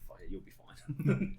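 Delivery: slow, offhand shrug of a line; nonchalant. Acted. Angel on his shoulder waving him off, nonchalant. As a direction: play a guardian who can't be bothered. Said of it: "like, nonchalant when I don't".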